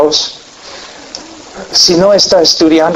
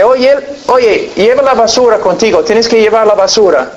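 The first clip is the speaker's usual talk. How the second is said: nagging wife; 6 semitones higher than usual. Retold or imitated.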